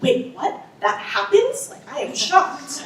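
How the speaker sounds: mock surprise. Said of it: "I'm like".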